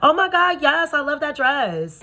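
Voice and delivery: high, loud, over-the-top gushing; mock a friend's fake compliment; squealing phony flattery; gushing fake praise. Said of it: "the first thing you said to me".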